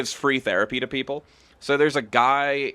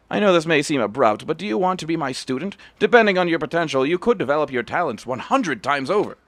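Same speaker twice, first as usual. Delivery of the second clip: lightly voiced stern old master, a bit louder; old master Kamaki; 4 semitones higher, 5 dB louder than usual. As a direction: read the master's judgement with weight. Reads Kamaki's lines.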